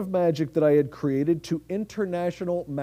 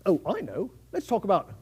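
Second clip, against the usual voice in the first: Francesco, street performer; 4 dB louder than usual. Acted. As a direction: patter like a cheeky street hustler. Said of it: "this is what that might appear".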